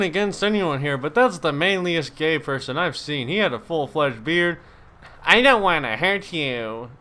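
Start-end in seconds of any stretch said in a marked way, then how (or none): 5.2-6.9 slow, drawn-out mock reluctance; imitated game character. Gamer mimicking a pipe-wrench attacker, slow imitation. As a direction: mimic him, stretching the words. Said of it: "why did he say it like that?".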